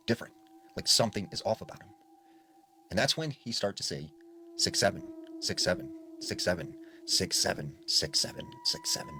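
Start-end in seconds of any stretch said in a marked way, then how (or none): 4.6-9.1 low, ominous chant, dropping as it goes; deepening, darker voice. Retold or imitated. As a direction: start low and sink deeper with each repeat. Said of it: "his voice got deeper and deeper".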